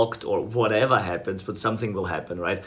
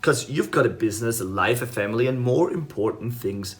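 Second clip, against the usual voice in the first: salesperson script. Shown as a demonstration. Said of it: "here's how it goes".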